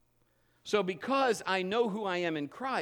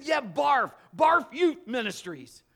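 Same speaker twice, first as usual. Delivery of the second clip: loud, higher shout, slowing on the name; mock proud shout; 7 semitones higher, 9 dB louder, slower than usual. Teasing the pastor with the fake group name, shouted. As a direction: announce the joke name like a banner.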